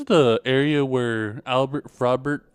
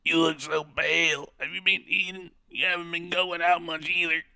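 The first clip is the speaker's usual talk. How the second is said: worried woman voice; 5 semitones higher than usual. Acted. Woman voiced fretting over prince.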